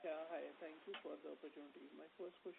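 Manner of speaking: faint, far from the mic; very quiet voice, hard to hear; barely audible. Real, not acted. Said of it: "Sir, your voice is, uh, very low".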